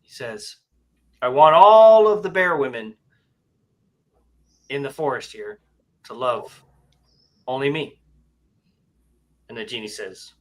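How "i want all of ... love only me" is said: bear voice. Acted. Bear's voice in joke.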